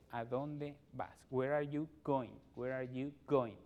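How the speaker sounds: slow, deliberate where are you going?; slow drill. Shown as a demonstration. Teacher slowly drills where are you going for families. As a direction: stretch it for learners. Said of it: "model pairs".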